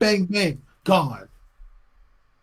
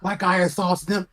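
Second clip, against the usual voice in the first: mocking apology; 3 semitones higher, 6 dB louder, slower than usual. Mocking the woman's apology in a whiny drawn-out voice. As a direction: draw out a whiny fake apology, slow. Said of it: "She said".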